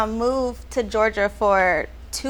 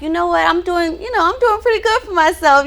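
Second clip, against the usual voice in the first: a higher, faster, lightly hammed-up brag; self hype-up; 7 semitones higher, 4 dB louder than usual. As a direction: hype yourself up, playfully. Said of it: "some room to be like".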